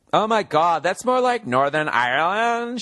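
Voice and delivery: mock Scottish accent. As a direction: whine it slowly as a Scottish critic of the accent. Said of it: "in a Scottish accent".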